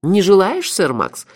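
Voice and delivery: high, cooing offer; tender concern. A narrator's reading. Melifaro offers his friend the horse dish, tender concern. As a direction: coax a friend with exaggerated care. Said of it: "с нежной заботой в голосе".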